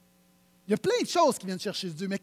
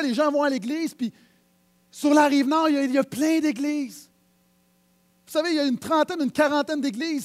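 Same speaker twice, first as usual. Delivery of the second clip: preaching; 4 semitones higher, 6 dB louder than usual. Acted. Preaches at full force.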